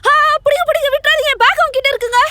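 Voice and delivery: high, frantic shouts for help; calling for help. Acted. Woman yelling at bystanders to catch the bag thief, frantic. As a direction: cry out to the crowd to catch the thief.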